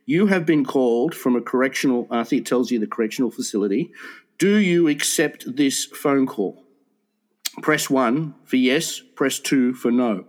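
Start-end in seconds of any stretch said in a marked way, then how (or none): 0.0-2.1 lightly voiced automated prison-call recording; measured announcement, a hint of a recording; recorded phone message. Friend retelling a prison call, recorded message voice. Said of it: "there's this message, and it says". 4.4-10.2 very slow, deliberate automated announcement; recorded phone message. Retold or imitated. Friend retelling a prison call, slow recorded message voice. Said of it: "there's this message, and it says".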